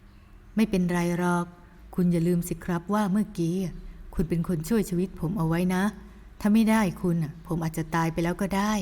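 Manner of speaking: gentle scolding man. Acted.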